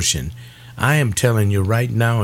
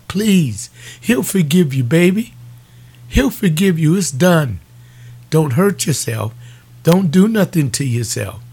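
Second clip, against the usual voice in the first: urgent reassurance; 5 semitones higher than usual. Real, not acted. Preacher urges grieving young woman.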